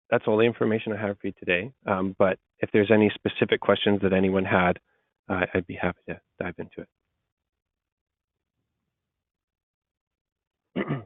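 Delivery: thick, congested voice from a cold. Real, not acted. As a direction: sound stuffed up and under the weather. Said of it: "apologies for my thick voice".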